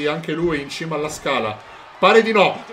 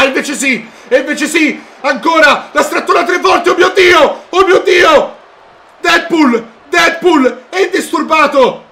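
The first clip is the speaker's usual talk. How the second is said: screaming ecstatic play-by-play, much higher; breathless italian goal commentary; 8 semitones higher, 7 dB louder than usual. Real, not acted. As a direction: lose it completely as he nearly wins. Deadpool about to win briefcase. (telecronaca urlata e senza fiato)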